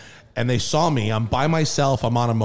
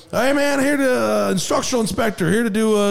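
exaggerated yeehaw country accent; 10 semitones higher, 4 dB louder than usual. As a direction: play the cowboy construction guy. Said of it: "I did the accent".

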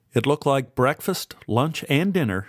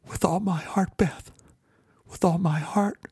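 tender whisper; 8 semitones higher than usual. A narrator's reading. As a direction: breathe the vow gently to her. Tender vow to crying girlfriend.

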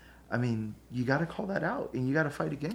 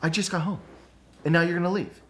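raised, whiny complaint, mock-petulant; pissy complaining; 5 semitones higher, 3 dB louder, faster than usual. Husband retelling his petulant complaint to his wife, mock pissy. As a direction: sulk at her for leaving. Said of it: "I get all pissy about it".

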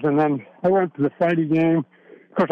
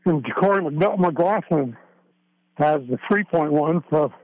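heavy breathing. Real, not acted. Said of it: "I'm sorry, I'm breathing hard".

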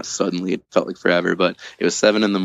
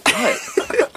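high disbelieving what; a stunned, pitched-up question; incredulous. Retold or imitated. Disbelieving reaction, retold.

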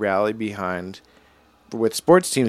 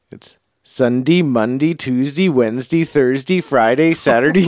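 mock Vermont accent on the days of the week, building louder; 2 semitones higher, 5 dB louder than usual. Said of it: "I'll tell you a Vermont accent".

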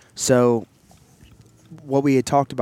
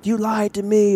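high, louder mock-argument cry; mock accusation; 10 semitones higher, 4 dB louder than usual. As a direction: act out an indignant accusation, pitched well up. Acts out a couple's argument.

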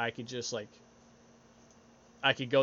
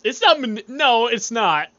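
loud protest; 9 semitones higher, 10 dB louder than usual. Real, not acted. Host denies being manipulative to friend, loudly protesting.

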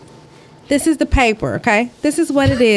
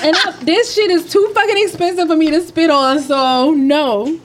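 mouth full; 6 semitones higher, faster than usual. Real, not acted. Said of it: "I have something in my mouth".

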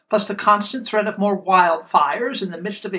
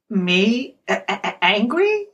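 forced out through clenched teeth; gritted teeth; slower than usual. Retold or imitated. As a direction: hold back anger, jaw locked. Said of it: "through gritted teeth".

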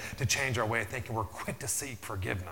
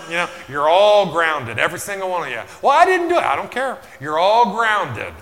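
angry father shouting; 7 semitones higher, 14 dB louder than usual. Retold or imitated. Father shouting at all the kids that they're grounded.

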